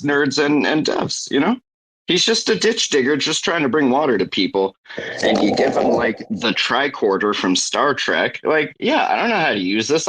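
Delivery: lightly voiced Jacob impression; hint of Jacob's voice. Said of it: "How do you do Jacob's voice so good?".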